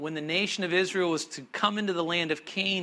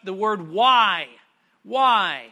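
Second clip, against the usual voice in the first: Why diucapkan tegas dan tinggi; stressed Why; 6 dB louder, slower than usual. Shown as a demonstration. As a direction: beri tekanan pada kata Why. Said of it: "underline that word".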